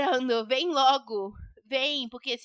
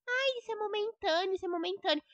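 sing-song mock of mum; 5 semitones higher, 4 dB quieter than usual. Daughter mocking her mother's words, sing-song. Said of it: "Você fica falando o tempo todo".

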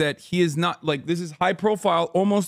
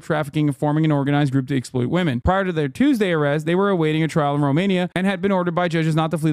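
fast news-article read; faster than usual. Acted. Streamer reads the news story fast to chat. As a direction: rattle off the report quickly.

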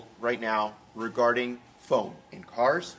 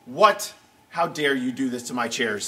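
outraged ghost of Herman; 3 semitones lower, 6 dB louder, slower than usual. Acted. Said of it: "He rolled over in his grave and was like".

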